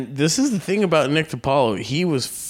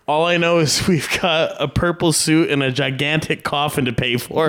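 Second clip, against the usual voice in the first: laughing retelling; 3 semitones higher than usual. Retold or imitated. Retold punchline with laugh.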